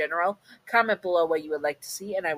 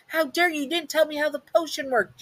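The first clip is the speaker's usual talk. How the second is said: much higher outraged yell; angry shout; 11 semitones higher than usual. A narrator's reading. You shouting at Oogie Boogie over the potion, outraged. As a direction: demand it of her, furious. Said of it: "you shouted at her".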